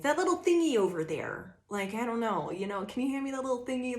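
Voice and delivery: be cute and goofy about it; lightly silly request for the thingy. Retold or imitated. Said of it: "just being silly".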